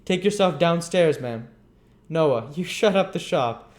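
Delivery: pompous orders. Acted. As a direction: lay down the law. Bumble ordering them.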